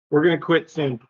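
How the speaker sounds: echoey room sound; big hall echo. Real, not acted. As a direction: voice bouncing in a big empty room. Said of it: "Why do you sound like you're at the bottom of a mine shaft?".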